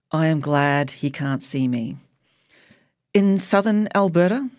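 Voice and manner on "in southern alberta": higher, disbelieving query; incredulous question. A narrator's reading. Daughter doubts doctor's tale of mother, incredulous. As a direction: question it as if absurd.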